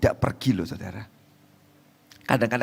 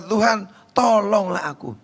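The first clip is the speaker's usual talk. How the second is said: worshipful plea; 8 semitones higher than usual. Acted. Woman bowing before the Lord after being chased off, high pleading. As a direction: beg for help in a raised pitch. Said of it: "menyembah sambil".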